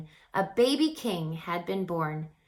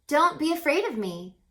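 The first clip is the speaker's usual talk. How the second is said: lightly voiced angel, a touch higher and louder; calm the frightened shepherds, slightly raised; angel speaking; 7 semitones higher, 4 dB louder, faster than usual. A narrator's reading. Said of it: "shining man said".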